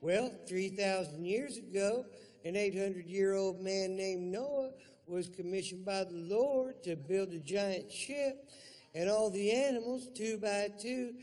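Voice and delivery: high, storytelling mom voice; mock motherly storytelling; mother telling a story. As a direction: spin the tale like a patient mother. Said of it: "mother answers".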